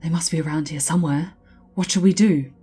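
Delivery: urgent call. Acted. Officer urgently asks leader.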